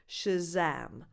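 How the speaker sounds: "Shazam" with schwa first, stress on "zam"; reduced first vowel. Shown as a demonstration. Teacher explaining the vowels, "Shazam" with weak first syllable. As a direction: say "Shazam" as "shuh-ZAM", cat vowel last. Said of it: "the first vowel is not defined".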